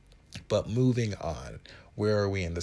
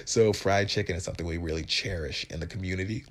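straight face. Real, not acted. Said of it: "with a straight face".

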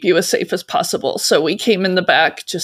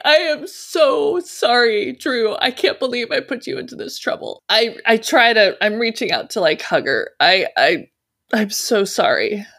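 mock weeping as she reaches for a hug; sobbing apology; 5 semitones higher than usual. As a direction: the speaker sobbing apologies to Drew.

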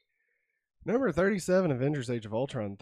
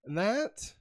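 ringmaster. Pretend. Show sign-off, grand announcement.

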